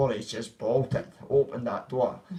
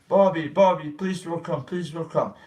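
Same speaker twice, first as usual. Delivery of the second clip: lightly acted, slightly raised plea; imitated pleading; 3 semitones higher than usual. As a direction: mimic a man begging Bobby to stay back. Acting out man pleading in fight.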